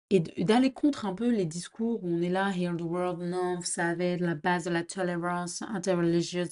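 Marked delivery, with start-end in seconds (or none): 2.6-6.5 put-on English accent. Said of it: "je fais un accent anglais".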